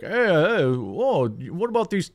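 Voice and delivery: high, chirpy pestering chatterbox voice; chatty passenger impression. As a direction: needle him like an annoying seatmate. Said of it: "he'd be like".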